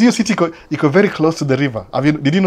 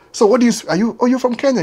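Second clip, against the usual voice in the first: mock sister-in-law; 10 semitones higher than usual.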